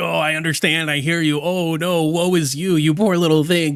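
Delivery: put-on, mock-sympathetic cooing voice. Speaker mocking how Scooter reacts to someone, mock-sympathetic Scooter impression. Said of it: "Scooter over there being like".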